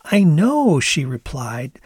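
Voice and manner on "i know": high, amazed Canadian voice; mock amazement. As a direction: act mock astonished. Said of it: "in mock amazement".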